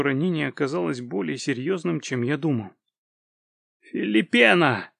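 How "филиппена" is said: high, loud, drawn-out call; crying out. A narrator's reading. Fainting man calls for the healer, high drawn-out cry. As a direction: call out the name at full voice. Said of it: "только и выкрикнул я".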